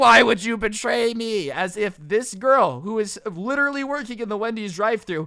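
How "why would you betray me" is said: mock loud, accusing, raised-voice yelling. Recounting a customer yelling at a Wendy's drive-thru worker, imitating a man yelling. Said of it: "starts yelling at her, being like".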